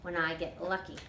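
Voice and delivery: easygoing Southern auntie dreaming aloud; a hint of a chatty older woman; Toot, folksy older woman. Toot's voice in read story.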